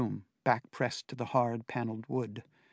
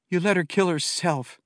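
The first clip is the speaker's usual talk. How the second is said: knife-edged accusation, louder; cutting; 6 semitones higher, 5 dB louder than usual. A narrator's reading. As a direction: put knives into every word. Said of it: "She put knives into the words".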